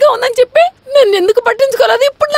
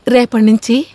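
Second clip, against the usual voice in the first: tender; 9 semitones lower than usual. Acted. Wife fussing tenderly over husband.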